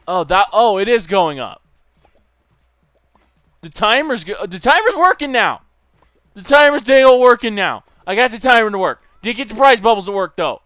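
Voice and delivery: loud, high-pitched burst of amazement; excited discovery. Real, not acted. Player amazed that the broken timer now works, excited. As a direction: blurt it out loud and high, thrilled. Timer suddenly starts working.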